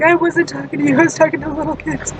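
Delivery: retold motherly protest; exasperated mom. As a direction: snap back like an exasperated mother. Mom's reply in acted quarrel.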